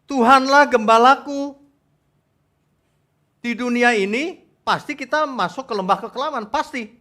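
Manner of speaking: loud, high sermon declaration; emphatic preaching. Real, not acted. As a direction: proclaim it to the congregation. Preaches at full force.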